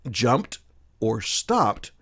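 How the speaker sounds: JUMPED and STOPPED said slowly, each ending in a T sound; final T sound. Shown as a demonstration. Teacher showing past-tense endings, final T sound on jumped and stopped. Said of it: "associate with a T or a T sound".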